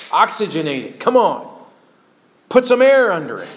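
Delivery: acted-out urging, rising in pitch; urging exhortation. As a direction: press Timothy to get going. Acts out Paul urging Timothy.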